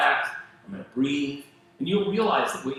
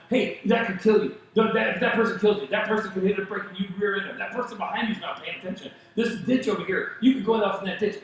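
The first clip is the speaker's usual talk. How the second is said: a nervous system yelling warnings at a driver; panicky inner voice; 4 semitones higher than usual. Retold or imitated. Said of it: "it's going".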